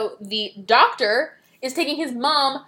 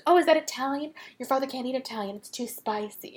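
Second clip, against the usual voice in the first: voiced mom; 6 dB quieter than usual. Voicing the timid mom.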